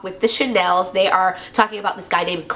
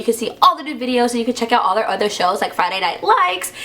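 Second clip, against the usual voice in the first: voice crack; 2 semitones higher than usual. Real, not acted. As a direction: voice cracking on the last words. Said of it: "hear that voice crack?".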